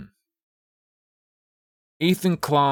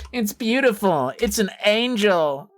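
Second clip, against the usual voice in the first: mock awe; 10 semitones higher than usual. Mock awe at unfindable video.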